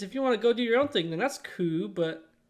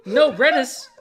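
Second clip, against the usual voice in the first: loud, higher exaggerated Asian accent; mock Asian accent; 5 semitones higher, 10 dB louder, much slower than usual. Shown as a demonstration. Explaining what the Asian man hears, mock accent. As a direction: belt out "Redis" in a fake Asian accent. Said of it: "'cause to him".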